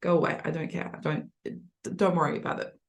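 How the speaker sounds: dismissive. Shown as a demonstration. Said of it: "to dismiss means you're like".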